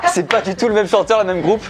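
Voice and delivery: high-pitched words through laughter; real amused laughter in the voice; laughing. Real, not acted. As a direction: laugh as you get it out. Laughs at own mix-up.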